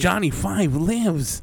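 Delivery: very slow, drawn-out robot line; robot quote. Pretend. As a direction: say it like a waking robot.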